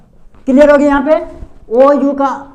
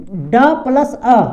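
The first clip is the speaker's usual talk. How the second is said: slow breakdown; much slower than usual. Shown as a demonstration. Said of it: "जैसे कि यहाँ पे double जैसे लिखेंगे हम".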